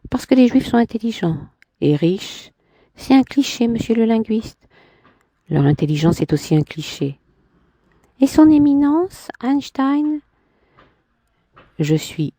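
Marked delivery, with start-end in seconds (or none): 0.1-2.5 woman's voice. Acted. Man voicing woman in dialogue. 2.9-4.7 higher, lightly voiced woman; a hint of a proud woman; Clémentine's voice. Man voicing woman in dialogue. 8.2-10.2 higher, lightly voiced woman; a hint of a proud woman; Clémentine's voice. Man voicing woman in dialogue.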